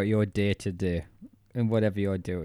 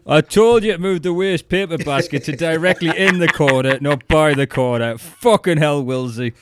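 higher, louder nitpicking boss telling off an employee; mock angry boss; 6 semitones higher, 9 dB louder than usual. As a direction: scold him like a petty manager. Imagined boss scolding Wills again.

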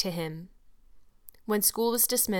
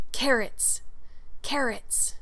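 taunting stage whisper, pitched higher; piercing whisper; 4 semitones higher, slower than usual. A narrator's reading. Boy taunting red-haired girl across the aisle, piercing whisper. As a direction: pierce the air with a mock whispered jeer. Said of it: "said in a piercing whisper".

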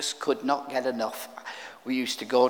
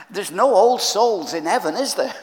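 laughing, louder and higher; amused; 6 semitones higher, 8 dB louder than usual. Real, not acted. Preacher joking to congregation about old people in heaven, amused. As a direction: toss out a joke through laughter.

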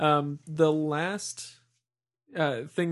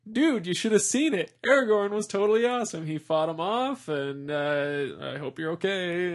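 excited friends; 3 semitones higher, 3 dB louder than usual. Retold or imitated. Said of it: "everybody's like".

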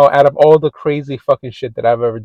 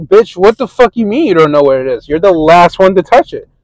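mock angry; 4 semitones higher, 4 dB louder than usual. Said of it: "And I'm like".

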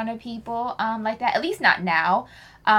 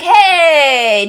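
loud, higher acted hey; high-five greeting; 6 semitones higher, 7 dB louder than usual. Showing how a high five starts, enthusiastic greeting.

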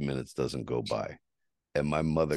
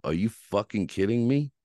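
heated, raised ranting at her; angry rant; 5 semitones higher, 4 dB louder than usual. Retold or imitated. Venting at the woman who blocked him, angry. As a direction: let it rip, furious and insulting.

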